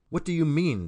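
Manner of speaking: shaking off sleep with a forceful question; demanding. A narrator's reading. Billy confronts the stranger, loud demand. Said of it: "demanded Billy".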